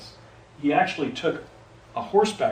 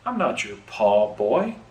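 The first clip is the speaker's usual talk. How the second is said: slow, lightly put-on rural Pennsylvania farmer accent; 4 dB louder, slower than usual. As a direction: drawl it out slowly like a Pennsylvania farmer hiding who he is. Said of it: "like in a rural Pennsylvania accent".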